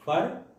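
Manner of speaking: "फॉर" said alone as the first syllable, pitch lifted; syllable demonstration. Shown as a demonstration. Teacher counting the syllables of forget, isolated first syllable "फॉर". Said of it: "तोड़ के देखो".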